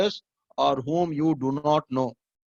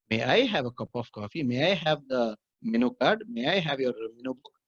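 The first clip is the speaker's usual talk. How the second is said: polite, measured request with may; 2 semitones lower than usual. Shown as a demonstration. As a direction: ask the waiter politely. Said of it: "That is how you are supposed to ask".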